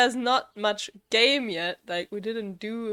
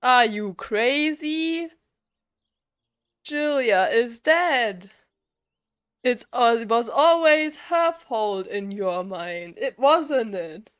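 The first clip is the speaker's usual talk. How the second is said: slow, emotionless mock reading, a bit louder; flat fake German dad; 5 dB louder, slower than usual. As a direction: drone it like reading a newspaper, with a lightly faked German accent. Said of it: "and be like".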